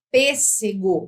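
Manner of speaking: PÊSSEGO with a closed first E; closed vowel. Shown as a demonstration. Teacher giving another example, PÊSSEGO with closed E. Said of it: "você tem uma vogal fechada".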